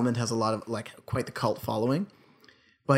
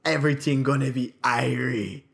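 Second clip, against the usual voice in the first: mock Jamaican. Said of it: "It's Irish".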